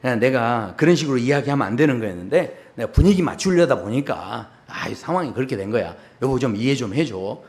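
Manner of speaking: lightly acted coaxing husband; excusing husband. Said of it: "회심의 미소를 지으면서".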